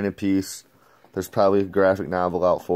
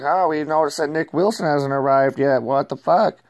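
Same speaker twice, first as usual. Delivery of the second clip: higher and louder, a retold indignant outburst; mock angry demand; 7 semitones higher, 4 dB louder than usual. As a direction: fire it off like an outraged host. Retold confrontation about missing Nick.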